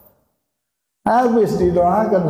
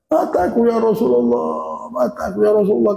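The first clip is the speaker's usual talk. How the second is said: pleading; 4 semitones higher than usual. Retold or imitated. Qatadah begs for his eye.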